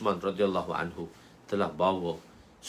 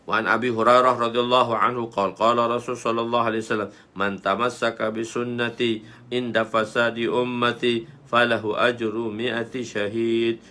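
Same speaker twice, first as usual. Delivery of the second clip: louder, level-toned Arabic recitation; hadith recitation; 5 dB louder than usual. Real, not acted. Teacher reads the hadith text to students, formal recitation. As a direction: recite formally on a steady pitch.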